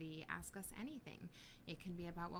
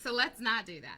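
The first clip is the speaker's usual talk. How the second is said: laughing; 2 semitones higher, 10 dB louder than usual. Real, not acted. Laughing while saying.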